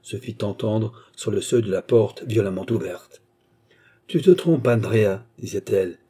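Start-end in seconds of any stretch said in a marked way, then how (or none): 4.1-5.2 thundering voice. Acted. Armand bursting in to stop Andrea, thundering. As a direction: thunder at him from the doorway. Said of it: "une voix tonnante".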